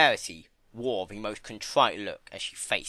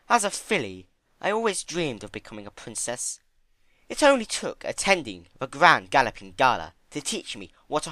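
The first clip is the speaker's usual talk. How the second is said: thoughtful Rarity; 3 semitones higher, 4 dB louder than usual. Acted. Rarity answering Fluttershy, thoughtful. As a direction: think aloud.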